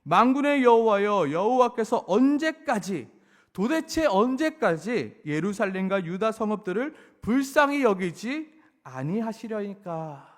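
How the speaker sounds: loud, pleading cry to the Lord. Acted. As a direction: call out, begging how long. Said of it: "이렇게 외칩니다". (애원하며 크게 외치듯)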